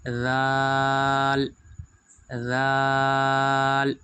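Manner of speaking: "ذال" with a voiced th, very long vowel; tongue tip out for "ذال", hold it long; correct soft dhal. Shown as a demonstration. Teacher correcting the letter for students, soft drawn-out th. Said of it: "زال نہیں پڑھیں گے".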